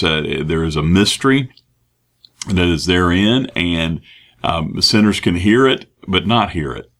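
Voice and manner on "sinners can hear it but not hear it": hear it rising, then not hear it falling; stress on hear. Shown as a demonstration. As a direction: lean on the word hear. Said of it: "truly hear it with their hearts".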